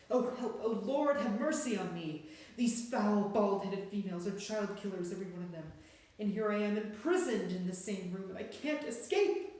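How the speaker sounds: put-on a trapped boy praying in terror; panicked prayer. A narrator's reading. Terrified boy trapped with witches.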